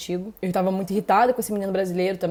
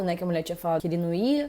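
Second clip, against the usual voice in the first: ordinary delivery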